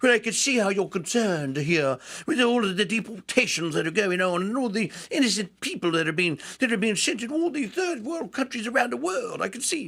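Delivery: put-on high-pitched upper-class English accent. Speaker acting out what a man who was let in would say, in a highfalutin british accent. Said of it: "with his highfalutin English accent, British accent".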